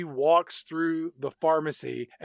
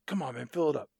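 mock begging back and forth. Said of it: "He's like".

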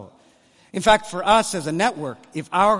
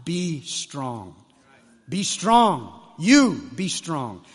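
challenging call; 3 semitones lower, much slower than usual. Acted. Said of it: "He needs to be called and challenged".

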